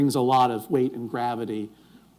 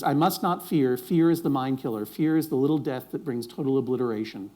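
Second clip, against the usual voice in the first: straight recitation; 2 semitones lower, 4 dB quieter than usual. Shown as a demonstration. Host recites the Litany Against Fear for the audience, straight. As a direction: recite it plainly, letting the last phrases sink. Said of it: "let me give it to you straight".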